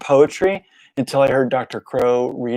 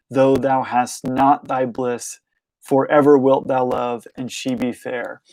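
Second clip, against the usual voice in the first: slow, measured poetry recital; unhurried recital of Keats; poem reading. Acted. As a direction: let each line land, lingering on the pauses. Reads Keats stanza aloud.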